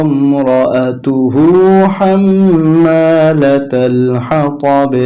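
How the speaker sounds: slow, melodic chanted verse; long, drawn-out Quranic chant; Quran-style recitation. Shown as a demonstration.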